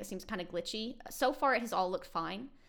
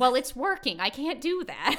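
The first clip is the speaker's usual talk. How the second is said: higher and louder, breaking into laughs; grandma quote through laughter; 5 semitones higher, 7 dB louder, slower than usual. Retold or imitated. Granddaughter quoting grandma's refusal, laughing through it. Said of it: "And she's like".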